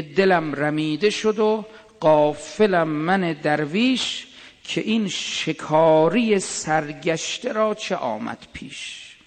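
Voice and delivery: drawn-out poetic recitation, slow; slow verse recital. Acted. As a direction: recite the couplet slowly and tenderly. Reciting Hafez verse slowly.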